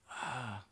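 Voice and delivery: quiet, breathy sigh; soft sigh. Real, not acted. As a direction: let out a low sigh. Weary pause over hard question.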